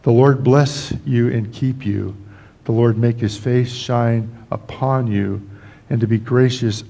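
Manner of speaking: slow, measured benediction read; scripture blessing. Acted. Pastor slowly blessing the congregation with scripture. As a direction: lay each phrase down slowly like a blessing.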